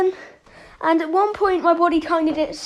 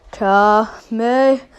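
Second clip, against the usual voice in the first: attack call; 4 semitones lower, slower than usual. Acted. Firing the signature attack.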